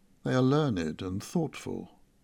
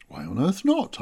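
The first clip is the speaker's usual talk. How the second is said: sharp, indignant question; demanding; 5 semitones higher, 3 dB louder than usual. Acted. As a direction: demand it, used to getting your way. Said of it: "I demanded".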